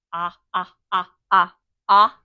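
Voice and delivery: teacher modeling the short o; short o sound. Shown as a demonstration. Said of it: "There's one of our vowels".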